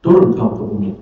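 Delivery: low, measured order to descend; calm, honourable dismissal; dignified gentle command. Retold or imitated. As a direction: send them down with respect. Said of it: "Dengan kalimat yang indah dan dengan terhormat".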